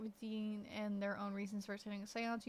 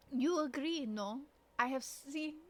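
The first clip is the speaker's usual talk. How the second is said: put-on French character accent; lightly acted French accent; slower than usual. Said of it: "Should I do an accent for each of these characters".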